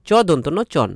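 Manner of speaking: চন said as chon, with চ and দন্ত ন named first; sounding out chon. Shown as a demonstration. Teacher to students, sounding out চন. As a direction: spell then say চন. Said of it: "এর উচ্চারণ হবে চন".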